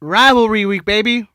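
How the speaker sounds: hype. Pretend. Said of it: "hype announcement".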